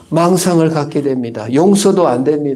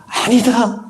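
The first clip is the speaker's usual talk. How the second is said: higher, louder, slowed solemn declaration; voice of the Lord; 8 semitones higher, 4 dB louder than usual. Acted. The Lord answering the resentful believer, solemn firm declaration. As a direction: announce forgiveness firmly.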